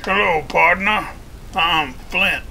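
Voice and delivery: swaggering cowboy character with deliberate pauses; cowboy showman Flint. Acted. Flint greets the viewers and mocks opal, cowboy swagger. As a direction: play a cocky Western gunslinger.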